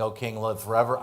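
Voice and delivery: forever rising, half-mocking; grudging, sarcastic greeting. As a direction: say it like you barely mean it. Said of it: "I would not be saying".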